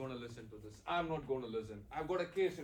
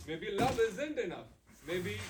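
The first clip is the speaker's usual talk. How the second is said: bitter outburst; 4 semitones higher, 5 dB louder, slower than usual. Acted. Husband's bitter reply in fight.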